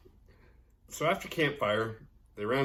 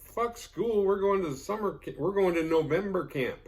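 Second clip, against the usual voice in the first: mock kids' voice; 8 semitones higher, 3 dB louder than usual.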